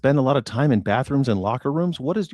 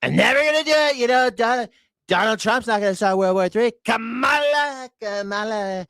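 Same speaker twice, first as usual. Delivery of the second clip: mock Trump impression; 5 semitones higher than usual. Streamer mimics Trump promising no wars, high mocking voice. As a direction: mimic a politician's boast, pitched way up. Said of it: "Remember he was like".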